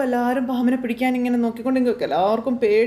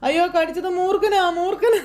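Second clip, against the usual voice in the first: wailing in terror; 7 semitones higher than usual. Acted. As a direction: howl it out in terror. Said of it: "കിടന്ന് കാറുവാ".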